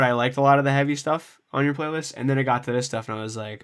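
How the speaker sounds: normal talking voice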